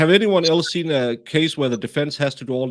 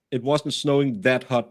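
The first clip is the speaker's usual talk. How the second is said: mock Boston accent. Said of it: "I love your accent".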